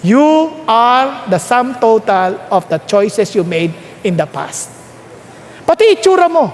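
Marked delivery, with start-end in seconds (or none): 0.1-4.7 each word spelled out slowly; slow, fading at the end; slow, deliberate repeat. Shown as a demonstration. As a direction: say it slowly for the neighbour to hear. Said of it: "Kalibitin mo siya".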